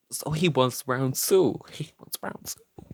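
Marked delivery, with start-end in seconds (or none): 1.7-2.8 unvoiced, slow stage whisper; hushed repeat. Storyteller relishing the rival's return, in a slow mock whisper. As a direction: whisper it slowly for dramatic effect.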